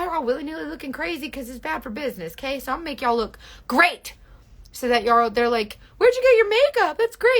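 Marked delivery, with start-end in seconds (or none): 6.0-7.4 higher, louder gushing compliment; mock a stranger raving about your face; impressed stranger. Imitating a stranger admiring a viewer's makeup, gushing.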